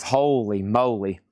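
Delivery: slow, low holy moly; low amazed murmur. Real, not acted. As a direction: mutter it in low surprise. Surprised at a band's prices.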